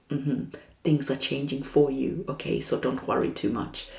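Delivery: soft, hushed voice of the divine, fading into a whisper; quiet reassuring divine voice; gentle reassurance. Acted. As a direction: soothe them like a calm guide.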